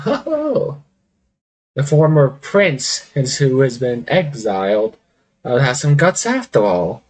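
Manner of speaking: lightly voiced haughty woman, drawn out; amused villainess. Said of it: "She's like".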